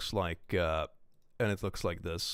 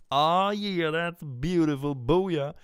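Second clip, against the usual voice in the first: excited; 6 semitones higher, 5 dB louder, much slower than usual. Real, not acted. Delighted reaction.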